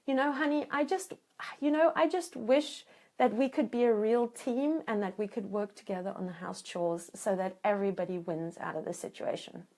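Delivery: soft tender wish. Shown as a demonstration. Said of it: "round off ... with your wish in disguise".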